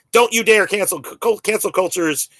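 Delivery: mock-indignant scolding in a hint of Southern accent. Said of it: "I'm doing a Southern accent".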